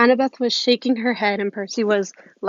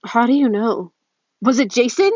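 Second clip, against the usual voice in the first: alarmed; 3 semitones higher, 4 dB louder than usual. A narrator's reading. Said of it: "afraid he was going to get in trouble".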